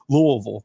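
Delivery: Louisville mumbled thick as LUH-vul; Louisville said the local way, LOO-uh-vul; local pronunciation. Shown as a demonstration. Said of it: "it's now the right way".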